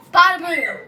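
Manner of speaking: shouted with a laugh. Real, not acted. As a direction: yell it out, half laughing. Last words before spinning.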